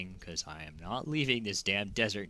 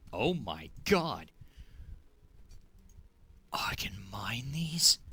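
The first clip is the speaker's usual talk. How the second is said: breathy whispered surprise; excited whisper; 4 semitones higher, 3 dB louder, slower than usual. Real, not acted. Player finding rocks he can mine, excited whisper. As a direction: hush it like a secret you just found. Delighted discovery in game.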